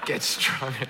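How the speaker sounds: light mock Texas accent; Texan accent. Brooklyn preacher teasing his Texas audience, mock Texan accent. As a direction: put on a rough impression of a Texan. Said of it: "That's my impression of your Texan, your Texas accent".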